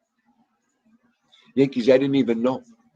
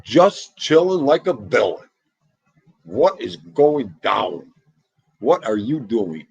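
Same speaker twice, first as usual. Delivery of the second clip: slow, drawn-out, louder greeting; 6 dB louder, slower than usual. Real, not acted. Welcoming a viewer into the live, slow and laid-back. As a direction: stretch the words out, cool and easy.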